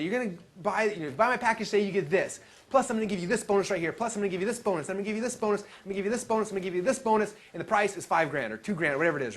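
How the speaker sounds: imitating a generic seminar speaker's pitch in hammed-up fashion; typical speaker's pitch. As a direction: rattle off bonuses like a cheesy presenter. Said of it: "the typical speaker comes in and they do this".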